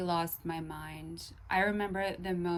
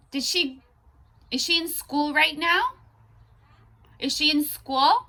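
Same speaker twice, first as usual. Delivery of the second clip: raised, high-pitched loud call; calling out questions; 9 semitones higher, 13 dB louder than usual. Real, not acted. Woman asking whether Jasmine is in school, calling out. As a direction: call it across with rising questions. Calls out questions to someone distant.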